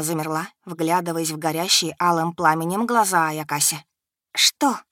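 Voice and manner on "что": trembling lips. A narrator's reading. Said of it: "вымолвила дрожащими губами".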